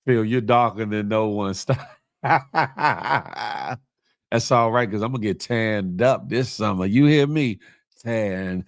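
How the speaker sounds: talking while crunching chips. Real, not acted. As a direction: speak between crunchy bites. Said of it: "Sorry about the crunching in y'all ears".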